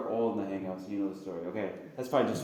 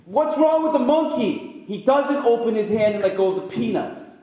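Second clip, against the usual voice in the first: rousing question; 10 semitones higher, 9 dB louder than usual. Real, not acted. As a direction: wake the room up with the question. Preacher rousing the congregation.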